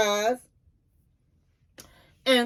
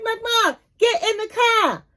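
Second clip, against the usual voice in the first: pleading order; 7 semitones higher than usual. Retold or imitated. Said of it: "She's like".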